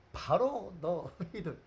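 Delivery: slow then loud, jabbing the finger; accusing shout. Acted. Peter jabbing his finger at the priests, accusing shout. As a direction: point and shout it at them. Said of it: "하고 삿대질 하는 거예요".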